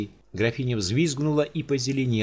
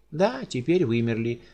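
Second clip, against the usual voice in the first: indifferent shrug; 2 semitones higher than usual. Acted. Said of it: "равнодушно пожала плечами графиня".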